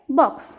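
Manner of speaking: "box" with a short O sound; short vowel. Shown as a demonstration. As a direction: keep the O in "box" brief. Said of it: "let us see the short vowel sound". ("box" में छोटा ओ)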